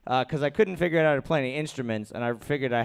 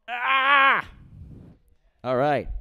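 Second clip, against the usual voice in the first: normal talking voice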